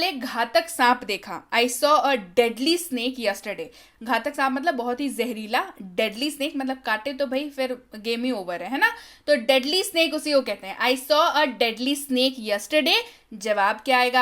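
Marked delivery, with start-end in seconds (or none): 1.5-3.7 slow and clear, word by word; slow model sentence. Shown as a demonstration. Teacher reads the English line slowly for Hindi students. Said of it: "teacher models the English sentence". 10.8-13.0 slow and clear, word by word; slow model sentence. Shown as a demonstration. Teacher reads the English line slowly for Hindi students. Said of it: "teacher repeats the model sentence".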